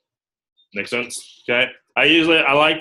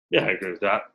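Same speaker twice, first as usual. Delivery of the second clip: understated, lower-pitched agreement; holding back; 5 semitones lower, 4 dB quieter, faster than usual. Shown as a demonstration. Recruiter modelling a reply to an interviewee, unimpressed. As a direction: give nothing away as you agree. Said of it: "holding it back 'cause you're".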